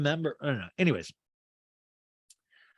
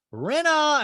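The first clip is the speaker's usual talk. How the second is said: high, loud mock yell; Kyle; 14 semitones higher, 7 dB louder than usual. Housewife calling to her friend, retold yell. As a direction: imitate calling out sharply to someone. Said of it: "And Kyle yells".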